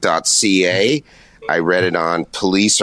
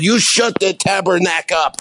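higher, hammed-up French accent snapping at an interviewer; the prime minister losing his temper, mock French; mock French-Canadian accent; 11 semitones higher than usual. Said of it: "he would talk like this".

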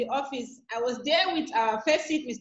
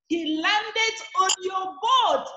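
slow, higher-pitched breaking of news; excited retold announcement; 4 semitones higher, slower than usual. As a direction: draw out the big news, imitating your excitement. Retelling exciting news to mommy.

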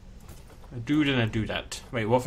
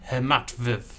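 put-on Russian accent; slower than usual. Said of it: "I have to do a Russian accent".

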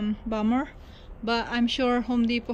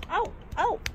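pained ow through laughter; laughing in pain; 7 semitones higher, 5 dB louder than usual. Real, not acted. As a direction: wince and laugh. Hurt while laughing.

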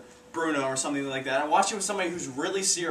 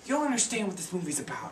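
scolding mom; 4 semitones higher than usual. Retold or imitated. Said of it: "my mom's just like".

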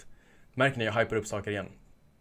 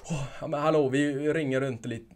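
put-on Norrland accent; 4 semitones higher, 3 dB louder than usual. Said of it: "uppe i Norrland".

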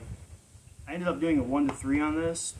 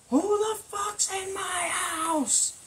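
very high, drawn-out mock holler; angry woman; much slower than usual. Burglar imitating the homeowner calling through the house, mock angry high holler. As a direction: imitate her shouting in a shrill, slowed high voice. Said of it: "she sounds very angry, very upset".

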